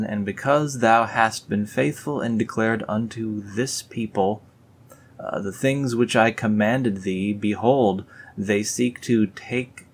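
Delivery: lightly grand King James read; scripture reading. Acted. Reading Nephi's verses to viewers, lightly solemn. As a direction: intone the old words, slowing at the end.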